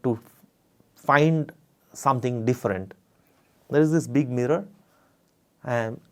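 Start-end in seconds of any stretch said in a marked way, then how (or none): 5.6-6.0 laughing while talking. Real, not acted. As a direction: chuckle as you describe it. Looking at tongue in mirror.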